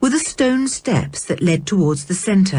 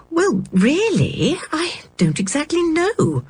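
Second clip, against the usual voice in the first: higher, whispered uncertain reply; hushed; 10 semitones higher than usual. Acted. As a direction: breathe it out, unsure. Mother unsure, hushed reply.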